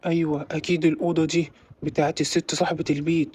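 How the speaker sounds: low, hushed thief muttering to himself; lightly voiced burglar. Burglar talks to himself in the dark house, low and hushed. Thief searching grandma's room.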